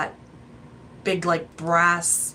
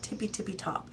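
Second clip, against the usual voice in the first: singsong "tippy, tippy top"; 2 semitones higher, 10 dB quieter than usual. Real, not acted. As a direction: lilt "tippy, tippy top" like a nursery rhyme. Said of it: "I don't know why I wanna say it like that".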